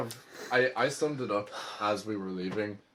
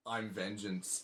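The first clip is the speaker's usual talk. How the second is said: Batman voice; 5 dB quieter, slower than usual. Retold or imitated. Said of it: "how he went from, like".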